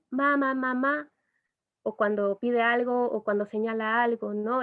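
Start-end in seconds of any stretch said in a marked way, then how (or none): 0.1-1.1 put-on baby babbling. Shown as a demonstration. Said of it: "que ya son estos como el".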